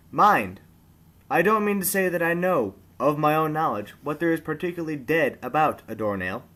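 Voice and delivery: measured, theatrical storytelling read; story narration. A narrator's reading. Narrator reading Dickens to online listeners, with theatrical relish. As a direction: read it like a fireside tale, savouring each phrase.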